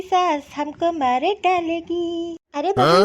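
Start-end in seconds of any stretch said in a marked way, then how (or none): 2.5-3.1 calling out. Acted. Mother-in-law calling daughter-in-law.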